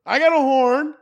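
high loud slow angry yell; road rage yelling. Retold or imitated. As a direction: yell at the honking driver. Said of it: "yells at people who are honking".

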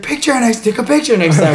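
high, loud mock nagging; imitated demanding friend. Friend paddles off wanting photos, imitated high demand. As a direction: mimic an oblivious friend's insistent call. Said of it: "she's like".

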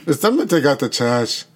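attempted Italian accent, half Russian; a singer's accent. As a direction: show off a lightly faked Italian accent. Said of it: "You don't think that's Italian?".

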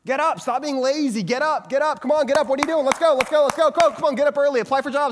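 mock drill sergeant shouting at a lazy friend; drill sergeant yelling. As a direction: yell them off the couch like a drill sergeant. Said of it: "we may feel the need to say".

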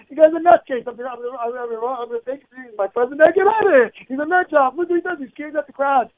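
a bystander exclaiming at the rally; crowd's disbelief. Retold or imitated. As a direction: sound scandalised by the outburst. Voicing the crowd's reaction.

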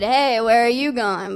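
leering "Hey, where are you going?" with a sleazy lilt; mock creepy catcall. Stranger calling out to her in the street, leering. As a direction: play it like a street harasser. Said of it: "I thought he said".

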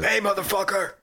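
mock angry order. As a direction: imitate a soldier ordering someone out. Acting out soldier ordering villager out.

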